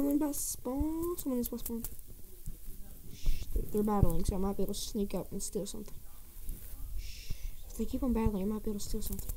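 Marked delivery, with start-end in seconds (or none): 3.1-9.3 hushed. Real, not acted. Sneaking, speaking softly.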